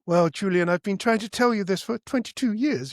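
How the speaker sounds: lightly voiced Queen's English mother; very English accent. Mother to her son, lightly put-on English accent. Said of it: "in her very English accent".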